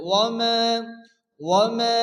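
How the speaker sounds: ওয়া মা with a long held "maa"; tajweed ওয়া মা, ending sustained one measure; elongated vowel. Shown as a demonstration. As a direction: draw out the last vowel of ওয়া মা. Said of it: "এক আলিফ পরিমাণ টান দিয়ে পড়তে হবে".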